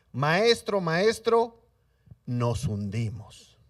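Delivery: loud calling maestro, then slow sinking plea; panicked cry. Acted. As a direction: call out to the master as the boat sinks. Disciples crying out in storm.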